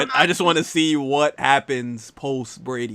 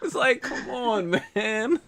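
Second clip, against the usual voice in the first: words breaking into laughter; laughing; 5 semitones higher than usual. Real, not acted. Friend laughing at the drive, talking through laughs.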